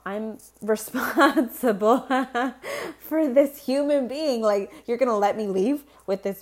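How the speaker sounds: nervous laugh of a new mom; laughing in disbelief. Real, not acted. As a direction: giggle nervously at the thought. Imagines leaving hospital with baby.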